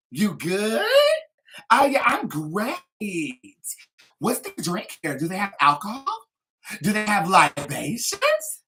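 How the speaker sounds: put-on high, loud Valley girl voice with upward lilt; Valley girl practising her small talk. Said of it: "talk like Valley girls".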